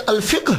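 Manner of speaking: "الفقہ" as al-fiqh, ending on q and h; no vowel after the q in "الفقہ"; difficult correct form. Shown as a demonstration. Lecturer showing what is hard to say, "الفقہ" as al-fiqh. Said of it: "یہ بولنا ذرا مشکل لگتا ہے".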